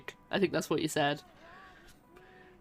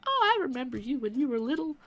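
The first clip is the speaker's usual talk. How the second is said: put-on Southern accent; 7 semitones higher than usual. Recalling hometown folks greeting her: light Southern accent. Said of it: "I don't know why I made them Southern".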